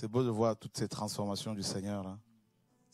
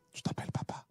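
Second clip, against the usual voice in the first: chuchoté. Real, not acted. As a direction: question chuchotée, sans voix. Chuchote avec l'enfant. (le pasteur chuchote à l'enfant timide)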